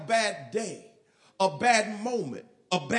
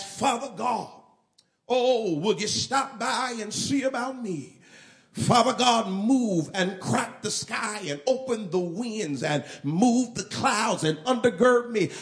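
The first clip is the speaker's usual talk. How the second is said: louder, a touch grand and ornate; eloquent prayer; 5 dB louder than usual. Retold or imitated. A churchgoer praying fancy words, lightly hammed-up and louder. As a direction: put on a lofty prayer-meeting voice. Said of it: "eloquent as".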